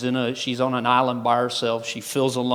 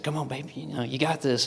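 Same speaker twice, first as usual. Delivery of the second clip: imitating a wife's soft coaxing; quiet encouragement; 5 dB quieter than usual. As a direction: softly urge him on, under your breath. Wife coaxing him on stage.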